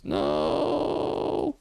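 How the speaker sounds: sudden high startled no; surprised yelp. Real, not acted. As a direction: yelp it in alarm. Nearly falling in game.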